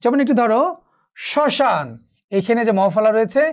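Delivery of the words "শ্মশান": শ্মশান said as shoshan, no m, slightly nasal; silent m, slight nasality. Shown as a demonstration. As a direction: drop the m in শ্মশান, leaving a hint of nasality. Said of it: "উচ্চারণটি এখানে হয়নি, but একটু নাসিক্য".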